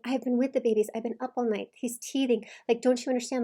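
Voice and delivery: mildly pleading imitation. Coach voicing exhausted mother explaining herself, pleading. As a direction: plead to be understood, lightly acted. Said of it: "Like, pleading with them to understand".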